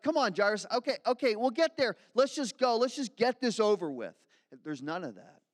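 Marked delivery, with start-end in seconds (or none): 0.0-4.2 louder and higher, brushing Jairus along; impatient Jesus. Pretend. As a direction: hurry him up, exasperated.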